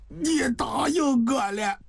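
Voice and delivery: light up through the weakness; weak sudden hope. Acted. Dying man hearing she accepts, slow hopeful surprise. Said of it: "王向清眼睛突然一亮".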